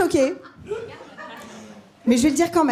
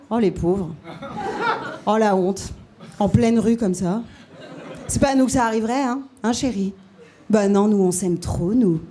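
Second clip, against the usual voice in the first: low, smug couple voice; smug passer-by; 5 semitones lower than usual. Pretend. A hint of a smug passing couple judging the fighting pair, lower. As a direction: look down on them, lightly voiced. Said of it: "Un regard qui semble dire".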